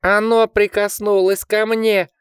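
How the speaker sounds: very high, slow panicked squeal; piercing shriek. A narrator's reading. Richard clings to Jack in panic, shrieking. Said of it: "пронзительно взвизгнул он".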